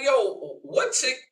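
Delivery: high, loud taunting; heated put-down. Retold or imitated. Telling the woman she's single now, loud taunt. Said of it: "I'm like".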